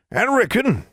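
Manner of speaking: high, very slow crone; ancient crone voice. A narrator's reading. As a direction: creak it out like an ancient witch. Granny Ford speaks.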